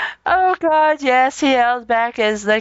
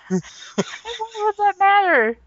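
mock outrage; 9 semitones higher, slower than usual. Mock outrage over birthmark.

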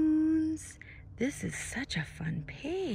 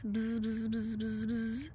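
bee buzz; 4 dB quieter than usual. Shown as a demonstration. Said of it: "make your arms flap like little bee".

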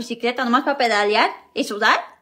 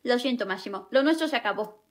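sad, soft breakup; 6 dB quieter than usual. Acted. Breaking up sadly.

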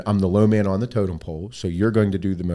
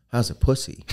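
laughing through it; 2 semitones higher than usual. Retold or imitated. Quoting crude coworker, laughing.

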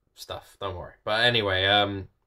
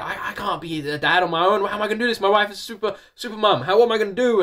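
higher-pitched, anxious rush of questions; retold panic; 9 semitones higher, 3 dB louder than usual. Husband imagining raising sons alone, retold panic. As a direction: replay the panic as the worried dad. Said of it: "I was just like".

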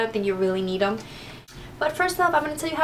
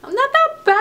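high, relieved giggle; pleasantly shocked, laughing it out; surprised laugh; 13 semitones higher than usual. Real, not acted. Relieved at her teeth shade.

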